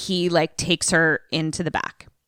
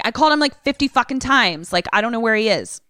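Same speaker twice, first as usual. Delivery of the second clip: pissed; 4 semitones higher, faster than usual. Retold or imitated. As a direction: imitate a pissed-off bouncer defending himself. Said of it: "like, pissed".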